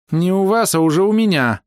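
high, pointed correction; high-pitched female retort; high-voiced woman. A narrator's reading. Hidden woman corrects hero.

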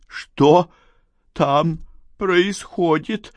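high, strained, slow croaked question; hoarse croak. A narrator's reading. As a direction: croak it out in shock. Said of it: "прохрипела Надежда". (сдавленный хрип)

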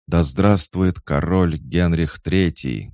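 high, slow, drawn-out cry; shouted acclamation. A narrator's reading. Catherine hails her son as king, shouting. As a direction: hail the new king at full voice. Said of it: "крикнула Екатерина".

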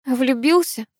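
high, stunned repeat; girl echoing the brother's words. A narrator's reading. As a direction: echo the word in disbelief. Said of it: "эхом отозвалась я".

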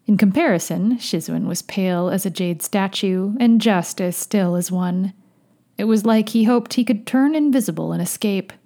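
measured, fuller-voiced audiobook read; story narration. A narrator's reading. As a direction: narrate the tale steadily and clearly. Narrates fiction aloud.

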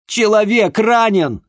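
loud, high, slowed cry; shouting through the door that a man is hurt. A narrator's reading. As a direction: yell it so they hear through the door. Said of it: "крикнул я".

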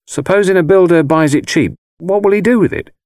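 high, loud crone posing a question; old gypsy woman. A narrator's reading. Old woman questions young man about builder, crone voice. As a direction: ask it as a taunting old crone.

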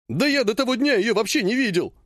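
blurted high-pitched protest; hysterical outburst. Acted. Ogonkov hysterically denying knowing the nurse. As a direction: cry it out in a panic. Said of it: "истерично выкрикнул Огоньков".

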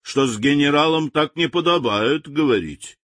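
a touch of a sharp rebuke; sharp remark. Acted. General scolds the insolent native sharply. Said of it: "резко заметил он".

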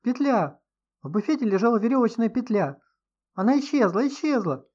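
high, loud panicked cry; alarmed. A narrator's reading. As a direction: blurt it out in alarm. Guest panics over missing noose. (испуганный возглас)

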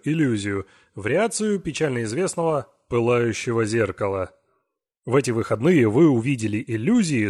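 grand showman addressing the crowd; booming circus ringmaster. Acted. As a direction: announce it like a ringmaster under the big top. (торжественный голос конферансье цирка)

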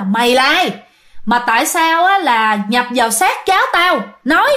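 a hint of an exorcist barking a demand; retold shout. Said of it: "hét lớn lên hỏi rằng". (quát nhẹ, giả giọng hét)

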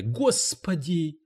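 a slow, rasping "Господи!"; hoarse croak. A narrator's reading. Cleaning lady croaks to the publisher, hoarse and slow. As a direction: croak it out slowly. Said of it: "прохрипела она".

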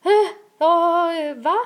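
high, stammering mock bewilderment; imitated panic. Boyfriend hearing about a pregnancy test, imitated panic. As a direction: play the boyfriend thrown into confusion. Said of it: "såg bara paniken i hans ögon".

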